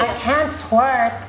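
slow mocking impression of a friend; Carly. Posing as the friend to tease her, slow mock impression. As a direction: stretch it out, imitating the other player. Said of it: "don't even sound like me".

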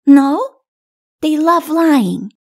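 put-on high, emphatic child voice; little child declaring. A narrator's reading. Little one on lying giants, emphatic child. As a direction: declare it firmly as a small child.

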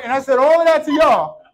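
demonstrating an overly loud preacher; barking preacher. Shown as a demonstration. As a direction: bark it out at the congregation. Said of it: "Why is he barking at me?".

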